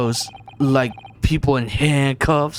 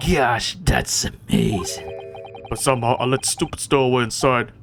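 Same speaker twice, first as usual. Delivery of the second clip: boastful Russian crewman; faster than usual. Acted. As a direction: deliver it as a stern Russian sailor. Voices Stroganoff, the Russian crewman.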